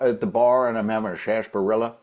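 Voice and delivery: sarsaparilla said as "sharsh-pa-rilla", a bit fast; funny sarsaparilla. Real, not acted. Guest at a bar ordering, sarsaparilla said "sharsh-pa-rilla". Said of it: "Oh, every time you say it".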